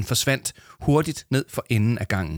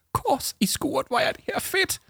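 much higher, squealing with delight; excited exclamation. Acted. Yama to Arthur at the make-up mirror, thrilled. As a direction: burst out in thrilled glee. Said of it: "udbrød Yama".

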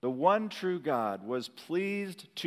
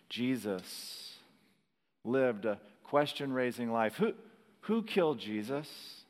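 ordinary delivery

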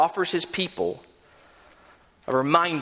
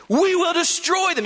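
rousing war cry; 13 semitones higher than usual. Retold or imitated. Hushai's quote peaks.

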